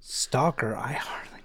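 breathy unvoiced aside; whisper. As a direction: whisper the pun setup. Joking whisper.

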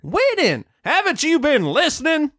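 mock exasperated. Acted exasperated pony in retelling.

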